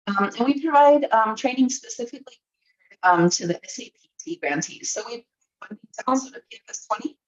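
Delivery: choppy voice cutting in and out; breaking up over a bad connection; glitchy robotic call. Real, not acted. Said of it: "your audio is breaking up".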